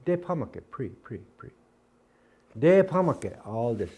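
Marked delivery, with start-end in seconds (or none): 0.0-0.6 Depamake with a d start, higher; Dakota pronunciation. Shown as a demonstration. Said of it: "I've been saying this pre". 2.6-3.5 Depamake with a hard d, higher and louder; Dakota pronunciation. Shown as a demonstration. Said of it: "I've been saying this pre".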